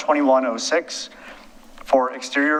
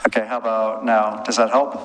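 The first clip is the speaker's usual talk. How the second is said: underwater; 2 semitones lower than usual. Real, not acted. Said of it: "Sounds like you're underwater".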